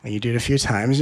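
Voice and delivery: usual speaking voice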